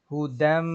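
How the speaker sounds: হুদাম said as one joined word, dal running straight into mim; হুদাম with no ya sound between dal and mim; pronunciation demo. Shown as a demonstration. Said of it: "সরাসরি কি হবে?".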